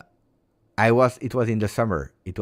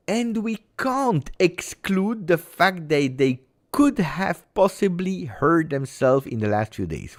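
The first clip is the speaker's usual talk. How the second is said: mocking official statement; 10 semitones higher than usual. Mocking the club's cautious statement in a high sing-song. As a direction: drag it out high like a pompous spokesman. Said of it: "If you say".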